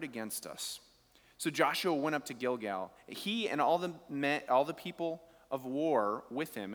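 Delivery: measured reading of the Bible passage; preacher reading scripture to the congregation. Acted. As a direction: read the verses out steadily. Reads scripture passage aloud.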